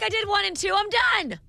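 high, breezy mock teen; quoting a coworker as a breezy teen; mock stubborn student. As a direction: brush it off like a smug kid. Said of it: "You're like".

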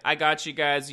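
loud, teasing gotcha; gloating mock taunt. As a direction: crow at them like a prankster. Prankster gloating in retold scene.

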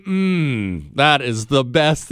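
slow, teasing mock relish; exaggerated savoring. Dad taunting his sons with a milkshake, hammed-up savoring. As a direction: draw out the enjoyment to taunt.

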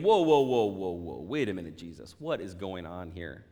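mock alarm, then a baffled question; startled whoa. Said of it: "you're thinking".

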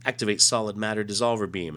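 alien voice. Acted. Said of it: "so the aliens say".

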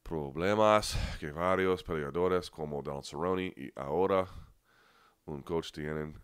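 halting Spanish read in an American accent; terrible Spanish accent. Real, not acted. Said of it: "You're gonna hear my terrible accent".

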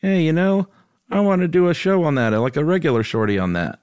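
high-pitched mock impression of co-host; Josh. Host quoting co-host's show idea, high mocking impression. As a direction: put on a silly high voice, falling away at the end. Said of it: "That was a great Josh impression".

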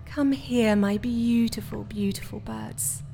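slow, fading to a soft hush; tender cooing. Acted. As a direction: croon to the birds as if they were babies. Cooing over her caged birds.

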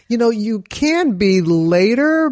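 firm advice. Retold or imitated. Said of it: "I'm like".

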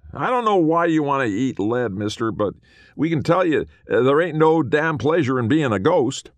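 high, loud indignant cowboy; bristle, high and loud; offended little ghost. A narrator's reading. Small man lectures.

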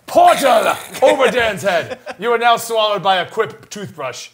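slow hammed-up announcer voice; mock portal announcement. Announcing a portal swallowing Dan, hammed-up and slow. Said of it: "a portal opens".

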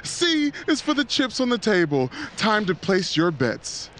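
upbeat cruise director; game show host voice. Acted. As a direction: sell each line like a game show. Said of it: "sounds like your game show host voice".

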